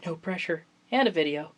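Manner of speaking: usual speaking voice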